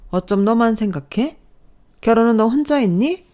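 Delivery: mildly indignant reproach; lightly voiced mother-in-law laying blame; accusing mother-in-law. (이기적이라고 몰아세우는 시어머니)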